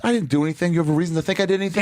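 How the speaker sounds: indignant protest. Retold or imitated. Acting out protest to cop.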